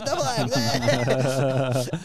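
mock his excited calling to the crowd; stage heckler impression. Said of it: "he goes up on stage and he's like".

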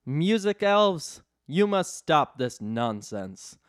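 slow, commanding Santa boom; big booming voice. Acted. Santa booming at the rowdy music elves. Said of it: "with his big, booming voice".

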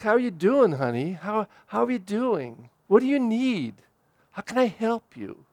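put-on soft, caring questions to a lost child; gentle asking. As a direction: ask softly like a worried parent reaching out. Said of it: "and just ask".

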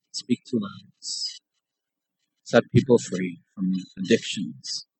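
slow, hushed prayer with long pauses; leading prayer. Real, not acted. Preacher asking the congregation to stand and pray, slow reverent prayer. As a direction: call on God softly and unhurriedly.

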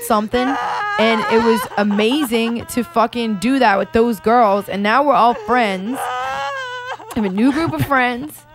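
tearful, voice breaking up; real crying through the words. Real, not acted. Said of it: "Are you crying over there?".

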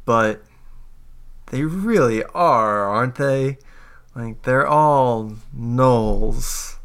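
lightly voiced medic, slow, stretched words; skeptical medic. Medic answers adventurer about the gnolls, slow and skeptical. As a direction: draw out the doubt, lightly in character. Game master plays the medic.

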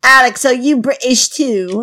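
hammed-up fake British accent; put-on British accent. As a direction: welcome listeners in a badly faked British accent. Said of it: "Sounds very natural".

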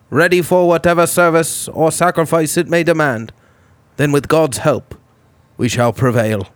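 solemn wartime broadcast address; old-time radio voice. Retold or imitated. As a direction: read it like a 1930s king on the wireless. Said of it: "You sounded like you were an old-time radio guy".

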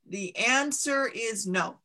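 slow, measured voice of a mountain; a giant stone mountain answering slowly; booming mountain voice. Acted. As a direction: let the mountain pronounce its verdict slowly.

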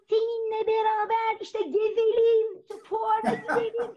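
biraz yüksek, yavaş, sağıra anlatır gibi; gülerek, abartılı yavaş bağırış taklidi; bağırarak, yavaş konuşma. Retold or imitated. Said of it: "Ama nasıl bağırıyor". (adamın sağıra bağırışını gülerek taklit)

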